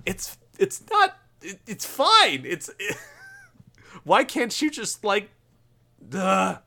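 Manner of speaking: high, slow, strained mock exasperation; mounting exasperation. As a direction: act out losing patience, stumbling over the words. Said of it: "gets more and more exasperated of people".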